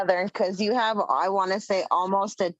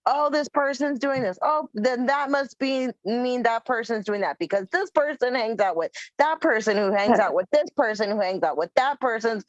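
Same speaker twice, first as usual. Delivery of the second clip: higher-pitched mock accusing chatter; mock gossip; 4 semitones higher, 3 dB louder than usual. Host mocking guilt-by-association gossip, mock accusing. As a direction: reel off the absurd chain, then dismiss it.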